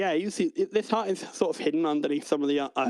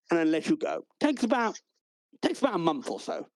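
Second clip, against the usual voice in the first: raised, bouncy welcome-host voice; a hint of an eager academy host; chirpy academy host; 2 semitones higher than usual. The clerk welcomes new recruits to the academy, chirpy.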